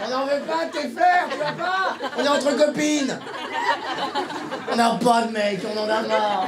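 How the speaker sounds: put-on high, indignant girl voice; mock single girl. Mocking a single girl who turns away the flower seller, high and indignant. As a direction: huff like an offended girlfriend. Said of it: "la meuf célibataire solo".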